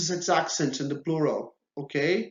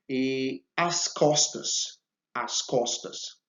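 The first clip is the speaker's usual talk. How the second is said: slow model repeat; slower than usual. Shown as a demonstration. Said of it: "slow repetition for learners".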